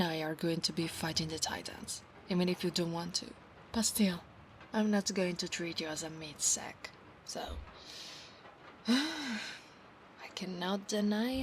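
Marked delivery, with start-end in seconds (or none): 4.7-6.9 hushed whisper. Acted. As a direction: whisper the promise close to his ear. Whispered roleplay.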